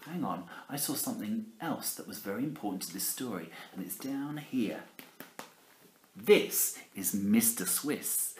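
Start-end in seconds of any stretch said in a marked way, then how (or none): 3.7-4.8 secret whispered aside. Acted. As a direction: lean in and whisper it. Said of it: "whispered aside".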